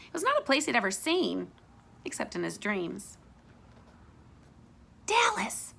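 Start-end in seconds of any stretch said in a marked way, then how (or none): 5.1-5.7 calling. Acted. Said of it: "Florida called".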